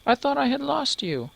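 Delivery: high relieved mother; mother's voice. Acted. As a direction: sound like a mother reunited with her child. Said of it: "a woman's voice".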